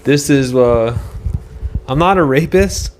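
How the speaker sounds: mocking the governor. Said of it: "He was like".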